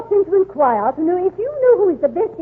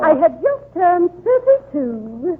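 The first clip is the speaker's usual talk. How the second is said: coy; 2 semitones higher, slower than usual. Acted. Coy lie about her age.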